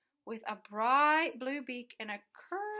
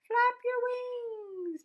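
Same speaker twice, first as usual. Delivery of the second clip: loud urgent call; 11 semitones higher, 5 dB louder than usual. A narrator's reading. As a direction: Flap your wings shouted higher and louder, a pause before wings. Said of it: "called the bird".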